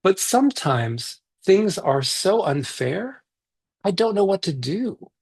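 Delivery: put-on reading a picture book aloud to kids; gentle read-aloud for a virtual story circle; story narration.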